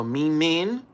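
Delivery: acted-out calling to a pet; calling the cat. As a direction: call out the nickname with a rising lilt. Calls the cat by nickname.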